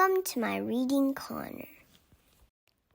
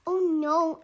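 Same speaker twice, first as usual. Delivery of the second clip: higher, louder cry of dismay; mildly dramatic storybook dismay; sudden dismay, pitched up; 5 semitones higher, 5 dB louder than usual. A narrator's reading. Angelina discovers the icing is missing.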